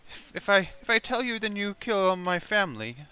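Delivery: high stammering plea; frightened goblin. Acted. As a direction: stutter out of fear. Goblin pleads.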